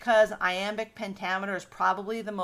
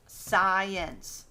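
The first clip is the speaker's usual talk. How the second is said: "science" drawn out in two beats; syllable by syllable. Shown as a demonstration. Teacher giving another two-syllable example, sounded out by syllable. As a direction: sound out "science" as sci-ence. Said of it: "that's two syllables".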